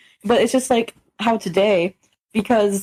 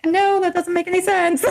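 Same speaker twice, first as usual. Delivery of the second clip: high, whiny protest; mock-indignant retelling; exasperated objection; 9 semitones higher than usual. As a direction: object in pitched-up disbelief. Retelling her objection, then laughs.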